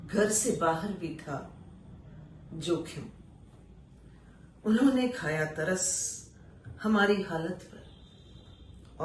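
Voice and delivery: slow, weighty recital with long pauses; poetry recitation. Acted. Reciting an exile poem to listeners, solemn recital. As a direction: let each line land, then pause.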